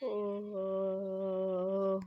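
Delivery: big bubble gum pop; popping bubble gum. Real, not acted. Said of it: "ne kadar büyük bir balon patlattım". (sakız balonu patlatma)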